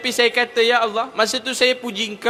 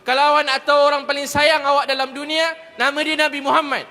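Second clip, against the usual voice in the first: high, insistent sermon voice; urgent, exalting praise of the Prophet; impassioned preaching; 5 semitones higher than usual. Real, not acted. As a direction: preach it with rising fervour, pitched up. Preaches at rising force.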